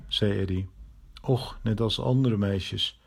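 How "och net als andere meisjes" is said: slow, softer, offhand; coolly. Acted. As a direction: shrug it off coolly. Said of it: "zei Kees koeltjes".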